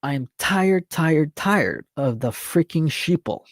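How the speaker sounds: real exasperation, words drawn out slowly; worked up. Real, not acted. Host fed up with sheeple, worked up and exasperated. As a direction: stretch out each "tired", fed up. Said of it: "I'm getting worked up a little".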